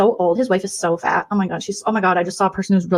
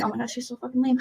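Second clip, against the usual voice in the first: softer, snide aside; catty aside; 4 semitones higher, 8 dB quieter than usual. Acted. Two-faced streamer aside to viewers, softer and snide. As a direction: bitch about her under the breath.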